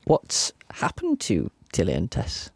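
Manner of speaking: mock teary. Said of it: "I'm just getting a bit teary asking that question".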